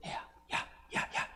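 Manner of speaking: hushed, secretive little calls; barely audible whispered calling-out; whispering. Shown as a demonstration. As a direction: whisper it like a furtive "psst". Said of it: "지혜가 지금 소곤소곤".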